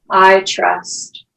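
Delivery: unhurried meditation teacher, long pauses between phrases; guided meditation. Acted. Yoga teacher guiding the class into breath and grounding, guided meditation. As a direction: guide them through each breath, leaving space.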